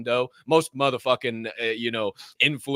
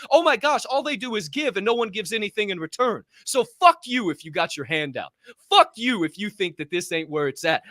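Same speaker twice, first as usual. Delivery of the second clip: higher-pitched heated outburst; hot and strong; 5 semitones higher than usual. Real, not acted. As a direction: tell off the people with their hands out. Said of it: "I'm sorry to be strong, but I'm hot this morning".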